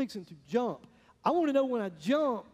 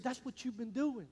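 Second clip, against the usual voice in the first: soft whisper; 3 semitones higher, 6 dB quieter than usual. Retold or imitated. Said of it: "he whispered in my ear".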